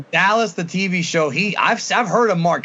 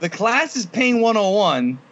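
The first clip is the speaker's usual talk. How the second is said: laughing; 5 semitones higher, slower than usual. Shown as a demonstration. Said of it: "That's a great fucking line".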